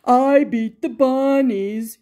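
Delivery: loud triumphant whoop. Acted. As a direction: crow over the win. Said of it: "he whooped".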